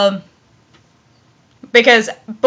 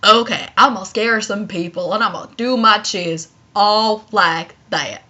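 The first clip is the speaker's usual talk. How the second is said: creeping ghost; 4 semitones lower, 6 dB quieter than usual. Retold or imitated. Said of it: "just creeping around and be like".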